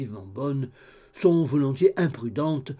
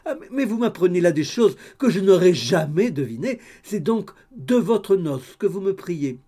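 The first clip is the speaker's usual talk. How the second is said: still laughing; 5 semitones higher, 7 dB louder than usual. A narrator's reading. Landlady amused by the news.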